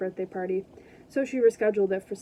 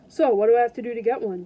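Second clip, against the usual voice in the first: eager, louder question; excited; 6 dB louder, faster than usual. Acted. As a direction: ask it all keyed up. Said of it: "Jason asked excitedly".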